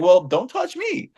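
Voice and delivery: high, drawn-out comeback; retold indignant retort. Fan answering the cameraman who touched him, indignant retort. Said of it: "I was like".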